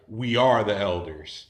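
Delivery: slow, loud proclamation; spirit speaking through godbrother. Retold or imitated. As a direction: declare it weightily, stretching the words. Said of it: "it was his spirit, like, came out of him".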